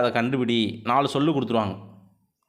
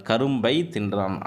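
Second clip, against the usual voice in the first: slow example read; 2 semitones lower, slower than usual. Shown as a demonstration. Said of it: "ஐ உச்சரிப்பு".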